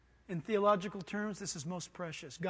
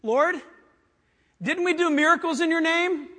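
higher, loud indignant plea; loud pleading; 8 semitones higher, 11 dB louder than usual. Acted. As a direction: protest desperately at the gate. Pleaders at judgment.

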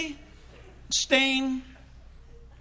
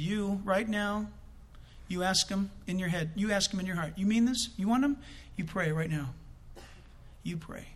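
gentle urging; 3 semitones lower, 4 dB quieter than usual. Real, not acted. Preacher quietly urging the Jewish passenger to pray now, soft and sincere. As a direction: coax him gently into prayer.

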